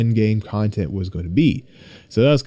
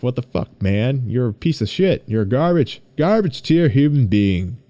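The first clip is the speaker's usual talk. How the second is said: harsh inner critic. Retold or imitated. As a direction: berate yourself like a bully. Harsh inner voice insulting self.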